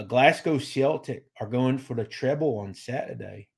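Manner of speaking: attempted Scottish accent. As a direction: put on an amateur Scottish accent, drifting a little Australian. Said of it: "let me say it in my Scottish accent".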